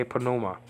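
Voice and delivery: pneuma with the P pronounced, "puh-NOO-ma"; sounded initial P. Shown as a demonstration. Teaching Greek learners, pneuma with an audible P. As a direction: voice the first P in pneuma. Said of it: "So that should be, uh, pronounced".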